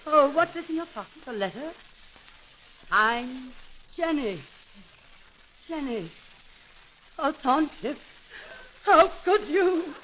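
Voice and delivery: hammed-up betrayed heroine; melodramatic outrage. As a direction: build from tender to wounded cry. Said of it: "run the gamut of emotion".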